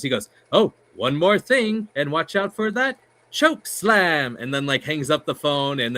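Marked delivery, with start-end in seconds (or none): 0.5-4.4 slow, high ring announcer warning; drawn-out announcer voice; Howard Finkel voice. Retold or imitated. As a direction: lay on the announcer drama for the punchline. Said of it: "does his voice".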